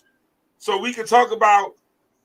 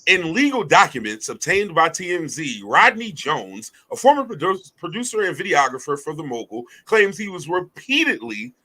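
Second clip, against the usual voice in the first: measured news-narrator read, lightly put on. Shown as a demonstration. Host reading legal claims to the co-hosts, narrator voice. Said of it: "my narrator voice".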